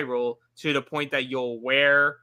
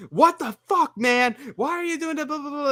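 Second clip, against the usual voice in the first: high, loud mock freak-out; outraged outburst; 13 semitones higher, 3 dB louder than usual. Imitating an angry betrayed player, high and loud. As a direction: blow up like a reality-show diva. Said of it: "full, like, Real Housewives about it".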